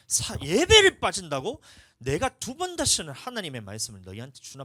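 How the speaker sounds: outraged disbelief. Retold or imitated. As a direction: hammer 예배를 in mock outrage. Indignant inner voice, repeated. (예배를 올려 천천히 크게 분개하며)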